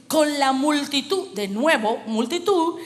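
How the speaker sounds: slow, emphatic scripture reading; lectura predicada. Real, not acted. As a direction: preach the verse, stretching key words. Lee el pasaje predicando. (lectura bíblica enfática y pausada)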